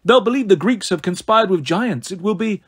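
villainess savouring her plot, lilting; silky gloating, lightly characterised; gloating snow goddess. Acted. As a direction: relish their doom as a cool goddess.

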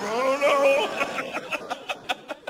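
high, far-off uh-oh; lightly voiced man losing confidence; mock doubt; doubtful boyfriend.

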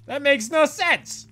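exasperated rant, pitch climbing; fed-up rant about bad architecture. Real, not acted. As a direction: rant in disbelief at the level design. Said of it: "Okay, I'm done ranting".

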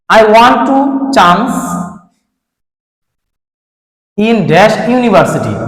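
very slow, word by word example sentence; reading the example slowly. Shown as a demonstration. Teacher reading the example to pupils, very slow. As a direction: dictate it slowly to the class. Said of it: "rules হচ্ছে".

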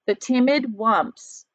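timid drawn out slowly and leaned on; stress on timid. Shown as a demonstration. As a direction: linger on timid so they notice it. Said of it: "talked about this word timid".

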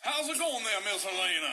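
high-pitched Southern belle accent, falling at the end; Gone with the Wind Southern accent. Shown as a demonstration. Radio host greets Irish guest Helena, hammed-up Southern accent. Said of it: "kinda like the Gone with the Wind accent".

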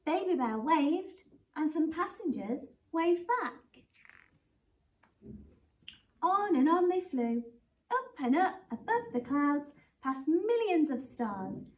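put-on reading a picture book to children; lively storybook read-aloud; gently voiced bedtime story; story narration. Teacher reads a picture book aloud.

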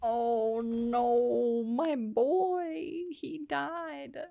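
drawn-out, half-hearted wail; mock crying. Player lamenting a dead game character, understated mock crying. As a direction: stretch it into a pretend lament. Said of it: "Oh, I'm crying".

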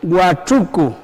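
"huachuco" in careful separated syllables; model for repetition. Shown as a demonstration. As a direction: give "huachuco" once for the learners to echo. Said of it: "una vez más".

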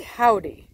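Howdy said the way the YouTube lady said it, the wrong way; imitating her wrong Howdy. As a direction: mimic the lady's Howdy. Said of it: "Like that".

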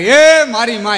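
loud, drawn-out cry of alarm; comic yell. Retold or imitated. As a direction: imitate a man bellowing for his mother. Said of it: "Manbhai રાડ નાખે". (રાડ પાડવાની નકલ)

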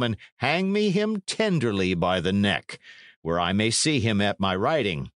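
mock-regretful lordly sentence, lightly voiced; coolly menacing knight. Knight ordering Selden to hang Tyndall, coolly menacing. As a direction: pass sentence with feigned regret.

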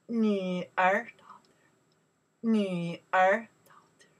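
whispered 女儿. Shown as a demonstration. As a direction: hush it to a whisper. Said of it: "unvoiced whisper".

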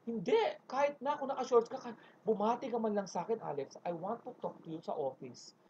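softly stern boss, fading quiet; a hint of a firm boss; Ma'am Charo voice. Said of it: "Si Ma'am Charo". (mahinahong utos ng boss)

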